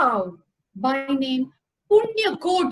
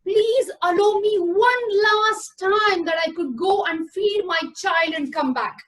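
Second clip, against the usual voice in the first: pleading; 3 semitones higher than usual. Acted. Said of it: "begged and pleaded".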